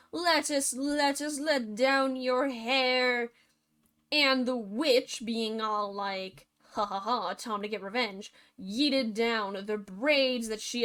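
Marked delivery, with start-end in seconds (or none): 0.1-3.3 prince's lightly acted call. Prince to Lettuce atop the tower, calling up. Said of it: "called up". 6.7-8.3 low, soft villainous chuckle and line; gloating witch. Acted. Witch lying in wait for the prince, gloating.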